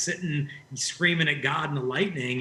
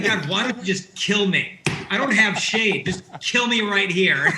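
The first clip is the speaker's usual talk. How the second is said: hammed-up self-pitying wail, higher and louder; whiny despair; 3 semitones higher, 4 dB louder than usual. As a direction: play Jonah's over-the-top pity party. Jonah complains to God about shade.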